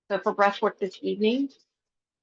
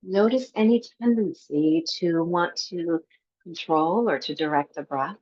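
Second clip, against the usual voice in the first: calm, even meditation guide with long pauses; guided meditation. Acted. Teacher guiding a breathwork class before Yoga Nidra, guided meditation. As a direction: lead them gently into the breath, leaving space between phrases.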